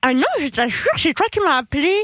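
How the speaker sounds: pen in teeth. Real, not acted. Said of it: "avec un stylo dans la bouche".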